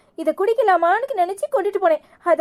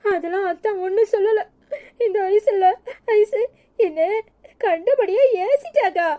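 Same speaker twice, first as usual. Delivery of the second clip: crying as you complain to your sister; acted weepy, wronged little-sister complaint; tearful; 3 semitones higher, slower than usual. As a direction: sob out the hurt in halting pieces. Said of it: "ஏன் அழுற?".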